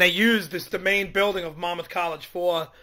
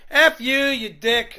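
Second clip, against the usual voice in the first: yelling; 4 semitones higher, 5 dB louder, much slower than usual. Retold or imitated. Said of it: "she just started cursing and yelling".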